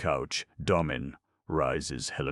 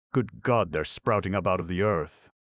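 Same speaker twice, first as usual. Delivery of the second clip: higher and louder, a sudden shocked cry; startled alarm; 3 semitones higher, 4 dB louder than usual. Acted. Hallemeier at the window sees robots swarming, alarmed cry. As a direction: blurt it out as if seeing the horror below.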